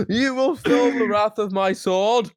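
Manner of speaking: slow hammed-up sword threat, laughing; mock knight threat. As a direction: growl a silly duel threat.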